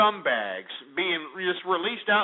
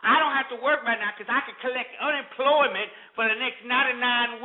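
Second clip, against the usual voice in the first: mocking freeloader voice; 3 semitones higher than usual. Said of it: "imbeciles that are like".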